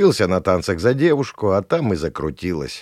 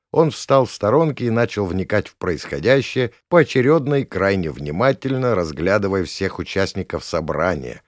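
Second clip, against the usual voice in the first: ordinary delivery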